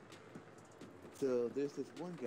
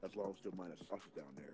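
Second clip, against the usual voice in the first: changed voice; 5 semitones lower, 7 dB quieter, faster than usual. Retold or imitated. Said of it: "And then he changed the voice".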